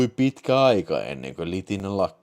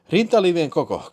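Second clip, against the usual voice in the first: louder, higher question, trying to stay calm; epäröivän rauhallinen; 9 semitones higher, 7 dB louder than usual. A narrator's reading. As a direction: ask it higher and louder, with mild hesitation. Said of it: "kysyin rauhallisesti epäröiden". (rauhallisesti epäröiden, korkeammalla äänellä)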